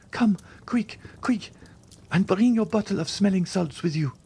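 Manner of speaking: high, breathless whispered plea; urgent whisper. A narrator's reading. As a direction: hurry her in a frantic whisper.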